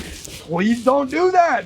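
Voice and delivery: slow, drawn-out begging; exasperated plea. Retold or imitated. Boyfriend pleading with her over her choices, exasperated. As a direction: stretch it out as a retold plea.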